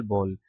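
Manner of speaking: बॉल said as English "ball"; बॉल with the open aw of ball. Shown as a demonstration. Teacher spelling it out: बॉल as English ball. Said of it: "B A double L".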